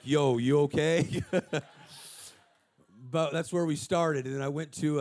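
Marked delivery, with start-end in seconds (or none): 0.0-1.3 slow, amused question through a laugh. Retold or imitated. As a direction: tease it with a chuckle. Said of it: "the angels were like".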